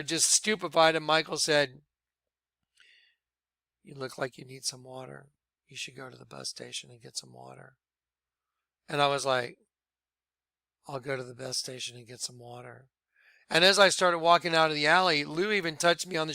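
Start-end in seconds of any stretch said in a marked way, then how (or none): 3.8-7.7 very soft, lower voice; hushed quote. Retold or imitated. Michael quietly telling the stunned man to get water, hushed. Quoting Michael to him that night. 10.9-12.9 soft, low, quiet retelling; hushed reply. Retold or imitated. Stunned man answering Michael about the water, hushed. Quoting his own dazed reply.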